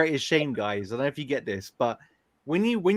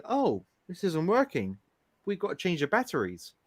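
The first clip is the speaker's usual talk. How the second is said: American accent; 6 dB quieter than usual. Shown as a demonstration. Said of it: "in America, you'd say".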